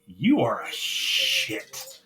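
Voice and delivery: slow, drawn-out mock accusation; retold indignation. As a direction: stretch it out in understated disgust. Retold indignant reaction to Carmelo's excuse.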